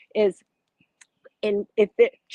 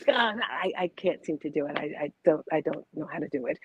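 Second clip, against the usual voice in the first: normal talking voice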